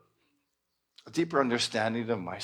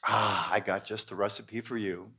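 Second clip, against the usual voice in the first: teasing universe; 3 semitones lower than usual. Acted. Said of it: "the energy of life says".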